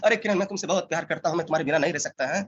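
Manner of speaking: quick, softened filmi lover with a stuttering laugh; Shah Rukh Khan impression. Trainer showing trainees how to copy a film star, hammed-up impression. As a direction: do an obsessive screen lover, laughing then rushing the words. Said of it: "Shahrukh Khan बनना है".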